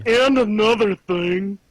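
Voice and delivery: a hint of a raspy smoker; old smoker voice. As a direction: lightly rasp it like an old smoker. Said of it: "it's the old smoker again".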